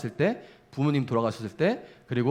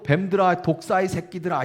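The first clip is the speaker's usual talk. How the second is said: mock harsh insult; 4 semitones higher than usual. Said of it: "이래요".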